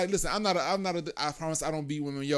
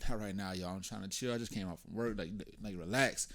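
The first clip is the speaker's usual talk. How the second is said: calm and quiet; 3 semitones lower, 6 dB quieter than usual. Retold or imitated. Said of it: "And I was like".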